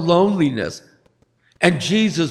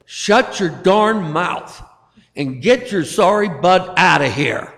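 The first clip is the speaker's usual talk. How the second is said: angry yell; 2 semitones higher than usual. Acted. Jesus throwing out the devil, understated angry yell. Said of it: "he angrily yelled at the devil".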